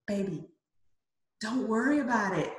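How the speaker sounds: soft, unhurried comfort; tender, hushed mother's advice; gentle maternal reassurance. Retold or imitated. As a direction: soothe a self-conscious child quietly. Mother reassuring self-conscious daughter, retold.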